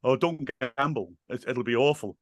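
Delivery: mildly mock-sincere warning; lightly unconvincing hard-man impression; Ray Winston. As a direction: feign concern without convincing anyone. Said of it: "in the most unconvincing voice".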